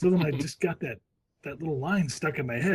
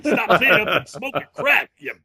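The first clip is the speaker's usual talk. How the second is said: mock scolding; 4 semitones higher, 4 dB louder than usual. Mock scolding Letterman fan.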